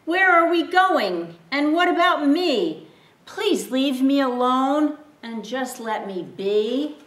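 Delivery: high, loud, rising panic; frightened donkey begging to be left alone; panicked donkey. Acted. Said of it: "And then said again".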